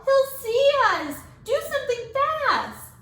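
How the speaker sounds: high, slow, loud frantic plea; panicked. A narrator's reading. Phoebe begging the teacher to hide them, high frantic voice. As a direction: beg for help in panic.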